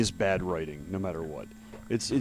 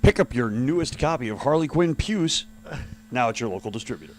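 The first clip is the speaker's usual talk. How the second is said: chipper 1950s ad. Pretend. Mock ad pitch continues.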